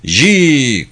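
drawn-out narrated war cry. A narrator's reading. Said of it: "o savaş çığlığıydı". (ölçülü, uzatılmış savaş çığlığı)

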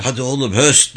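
a touch of a herder's call; mild driving shout. Acted. Boy driving water buffaloes, mild shout. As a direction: urge the animals on with a small shout. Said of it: "diye bağırdı".

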